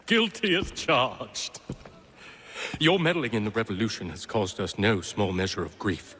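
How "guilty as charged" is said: laughing. Acted. Villain admits guilt with laugh.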